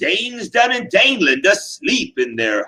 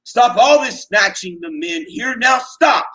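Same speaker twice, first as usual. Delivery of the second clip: higher, forceful stern order; angry command; 9 semitones higher than usual. Acted. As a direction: stop him with angry force. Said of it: "He glared hard at Grendel".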